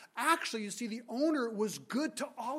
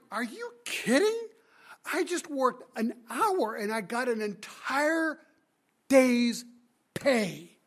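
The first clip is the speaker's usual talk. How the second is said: amazed worker; 3 semitones higher, 5 dB louder, slower than usual. Acted. Worker paid a day's wage for an hour, amazed. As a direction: savour the windfall, punching the last words loud.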